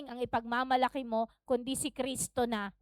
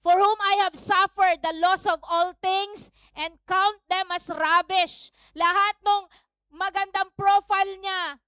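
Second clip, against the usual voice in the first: raised, emphatic sermon voice; forceful scripture declaration; preaching; 6 semitones higher, 6 dB louder than usual. Acted. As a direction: preach the verse out to the room.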